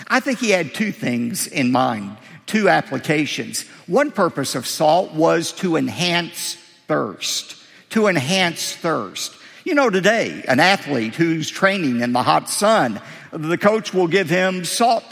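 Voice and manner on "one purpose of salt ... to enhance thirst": slow emphasis. Shown as a demonstration. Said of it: "repeats the point slowly".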